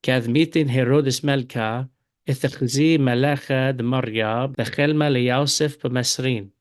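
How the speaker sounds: Syriac read with the Eastern accent, Malka and bechelma. Shown as a demonstration. Teacher reads the same verse to students in Eastern Syriac accent. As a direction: Eastern Syriac reading, the a vowels. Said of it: "And now in the Eastern accent".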